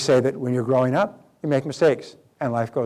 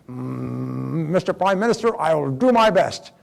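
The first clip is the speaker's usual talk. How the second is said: lightly voiced hesitant general, drawn out; hem, then draw out a reluctant promise; slower than usual. General answering the Prime Minister's command, hesitant and drawn out. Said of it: "and the general said".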